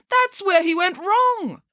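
slow, high-pitched triumph; drawn-out gotcha; triumphant. A narrator's reading. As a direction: declare the flaw exultantly, pitch soaring. Pounces on the mistake.

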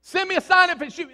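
high, quick pleading request; lightly mocking plea; mock pleading believer. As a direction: imitate a needy believer. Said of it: "We do that all the time".

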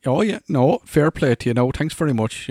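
mock-eager Irish thanks to the mate. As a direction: gush your thanks, a bit over the top. Himself thanking, overly grateful.

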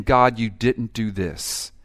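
whiny grumbler building to loud pleading; mock grumbling prayer building to loud; grumbling complaint. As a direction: complain to God, rising to loud protest. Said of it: "the one who's saying".

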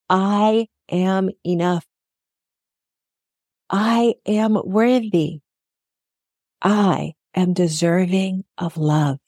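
slow, steady affirmations said along. Shown as a demonstration. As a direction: say them slowly with the listener. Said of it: "Come on, you can say it with me".

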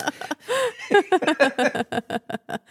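a burst of high, squeaky laughter; high squealing laugh. Real, not acted. Squealing laughter. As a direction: laugh high at your own joke about the judges. Laughs after joke about judges.

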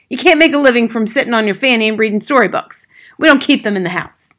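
loud, high-pitched dismissal; scornful father. Acted. Father to teacher about book reading, scornful. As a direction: dismiss it loudly.

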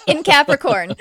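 loud, high, laughing punchline; gleeful laugh through the words. Real, not acted. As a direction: burst out laughing as you add it. Laughing at astrology joke.

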